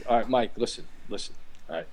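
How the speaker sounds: lightly voiced coach setting a pitcher straight; mock coach pep talk. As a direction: play the stern coach but keep it jokey. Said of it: "I'm gonna give you the dialogue".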